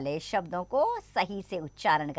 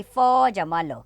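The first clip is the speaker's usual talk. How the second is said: slow spelling out; 4 dB louder, much slower than usual. Shown as a demonstration. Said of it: "दो वर्णों से बने शब्द का हम उच्चारण करेंगे".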